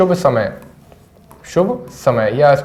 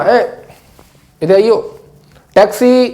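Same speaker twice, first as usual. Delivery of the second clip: calling out; 5 semitones higher than usual. Shown as a demonstration. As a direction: shout across the street for a cab. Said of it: "हेल का मतलब होता है ऐसे बुलाना".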